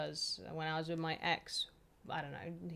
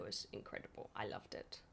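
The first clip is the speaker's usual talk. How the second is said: soft fond memory; 11 semitones lower, 13 dB quieter than usual. Real, not acted. Dreamy memory of Japan.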